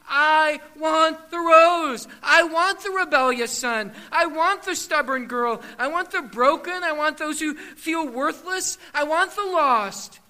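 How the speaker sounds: a preacher voicing Jesus shouting for the lost; Jesus yelling. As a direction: call out with all your voice. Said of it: "Jesus yelling at the top of his voice".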